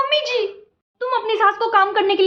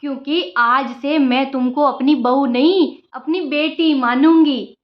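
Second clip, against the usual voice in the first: lightly lowered, motherly mother-in-law voice; 3 semitones lower, slower than usual. Acted. Mother-in-law grandly telling the new bride how things will be, lightly lowered voice. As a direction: play the sweet-talking saas.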